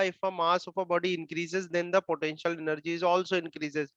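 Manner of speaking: words spaced out slowly for students to write down; slow dictation. Acted. Teacher slowly dictating a rule to students, slow dictation. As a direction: dictate it slowly so the class can copy it.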